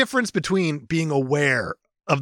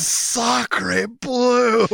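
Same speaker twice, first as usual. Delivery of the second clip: put-on French accent; 8 semitones higher than usual. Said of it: "almost your catchphrase".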